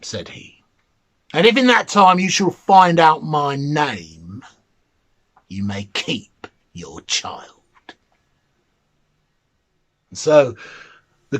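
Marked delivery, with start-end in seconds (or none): 1.3-7.6 mannikin bargaining. Acted.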